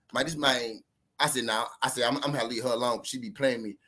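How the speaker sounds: low, soft aside to himself; retold private thought. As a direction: voice the inner grumble, dropped right down. His inner thoughts during the argument.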